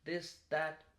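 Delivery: high, loud and fast, every line lifting up; high pitch every sentence. Shown as a demonstration. Speaker mocking people who talk in high pitch, too high and fast. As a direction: sound unsure, like each statement is a question. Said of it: "talking with a very high pitch at every sentence".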